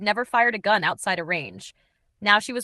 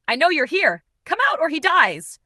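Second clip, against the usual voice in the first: loud, higher shout over gunfire; 8 semitones higher, 7 dB louder than usual. A narrator's reading. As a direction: yell it across the room. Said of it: "Blake shouted over the gunfire".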